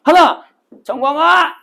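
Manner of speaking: high shouted count and name; shouting out a drill count and name. Shown as a demonstration. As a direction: bark the count, then yell the name. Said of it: "하나 하면 앉으면서 네 이름을 불러".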